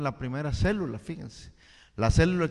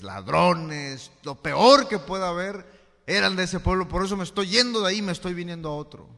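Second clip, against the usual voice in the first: indignant complaint; 3 semitones higher, 9 dB louder than usual. Retold or imitated. Forastero se queja.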